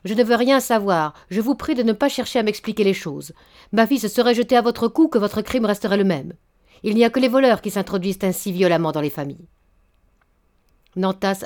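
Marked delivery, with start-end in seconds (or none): 0.1-9.5 stern rebuke. Acted. Outraged father rebukes suitor.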